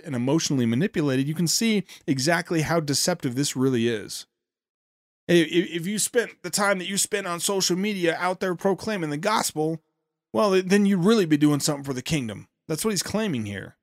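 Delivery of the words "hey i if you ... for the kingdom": a light Southern accent on the retold claim. Host paraphrasing a preacher's claim, lightly Southern accent. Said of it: "said that with a Southern accent".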